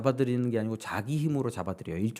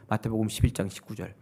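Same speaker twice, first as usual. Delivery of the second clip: normal talking voice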